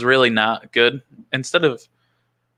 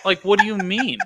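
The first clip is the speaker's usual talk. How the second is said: laughing disbelief; 9 semitones higher than usual. Retold or imitated.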